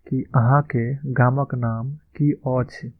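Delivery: slow, careful Maithili model line; slow model phrase. Shown as a demonstration. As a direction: spell it out slowly for learners. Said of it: "इसका उच्चारण इस तरह से होगा".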